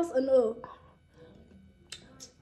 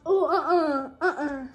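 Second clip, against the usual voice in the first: pained laughing; 3 semitones higher, 4 dB louder, much slower than usual. Real, not acted. Chip burning, laughing in pain.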